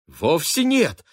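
high, loud flustered cry. A narrator's reading. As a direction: blurt it out in confusion. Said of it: "вскрикнула Полет".

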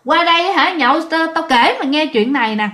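eager retold call to come over; urgent calling out. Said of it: "Ông bạn kêu giật ngược".

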